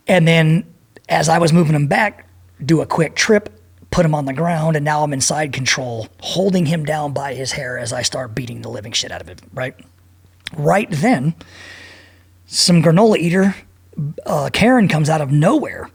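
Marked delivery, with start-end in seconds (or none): 6.2-9.8 unvoiced, low whisper. Real, not acted. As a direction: whisper the violent part. Dropping voice while telling fight.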